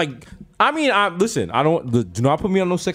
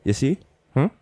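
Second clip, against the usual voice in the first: Jamaican mother; 5 semitones lower than usual. Retold or imitated. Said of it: "She's like".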